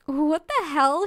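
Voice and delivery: loud, slow, appalled what the hell; disgusted. Acted.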